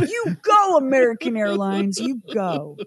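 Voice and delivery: "You go" leaps way up in genuine praise; sincere cheer. Shown as a demonstration. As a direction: cheer them on for real. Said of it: "But this time it's".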